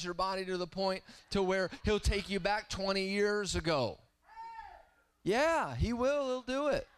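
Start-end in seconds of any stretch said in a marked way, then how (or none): 5.2-6.9 higher, louder insistent preaching; emphatic affirmation. Real, not acted. Preacher assuring congregation God restores youth, fervent. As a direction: declare it with certainty. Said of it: "preacher affirming, louder higher".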